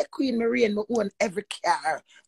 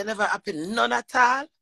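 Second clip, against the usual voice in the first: incredulous echo; 4 semitones higher, 3 dB louder than usual. Retold or imitated. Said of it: "Me say".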